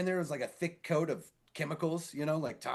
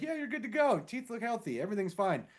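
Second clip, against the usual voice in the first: lightly voiced dentist, pitched up at first; breezy dentist; 6 semitones higher than usual. Dentist giving a patient the all-clear, breezy imitation.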